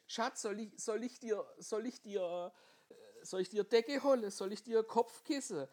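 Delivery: fussing wife. Retold or imitated. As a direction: fuss over him in a high voice. Überfürsorgliche Ehefrau voiced. (hohe, umsorgende Ehefrau)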